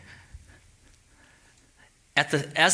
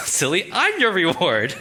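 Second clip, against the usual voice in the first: higher, slow teasing with a laugh; God's playful response; 5 semitones higher, 4 dB louder, slower than usual. Acted. God answers Abram's question about rewards, playfully teasing. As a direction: tease through a laugh, drawn out. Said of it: "God's response".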